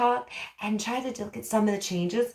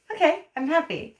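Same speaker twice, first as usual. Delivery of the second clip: bright, higher happy voice; showing happy; 9 semitones higher, 4 dB louder than usual. Shown as a demonstration. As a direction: beam it out, over the top happy. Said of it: "So I'm gonna show happy".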